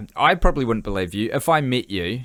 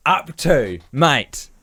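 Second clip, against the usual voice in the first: higher and louder, a playful tirade at his mate; mock rant; 5 semitones higher, 4 dB louder than usual. Real, not acted. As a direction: throw the question at him. Ranting at co-host Guy.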